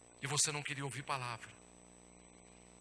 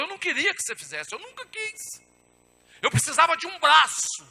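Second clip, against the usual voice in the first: loud, high-pitched preaching as God; emphatic pulpit cry; forceful divine reply; 12 semitones higher, 16 dB louder than usual. Acted. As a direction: raise the voice sharply, acting out God's answer. Acts God answering him forcefully.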